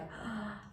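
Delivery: soft demo gasp; open-mouthed breath. Shown as a demonstration. Feminine woman shown what to avoid, open-mouthed gasp. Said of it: "you don't walk like".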